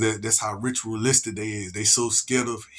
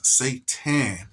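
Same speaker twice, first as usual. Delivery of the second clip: spooky whisper. Pretend. Whispering the devil's name to unsettle listeners. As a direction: whisper Satan, breathy and sinister.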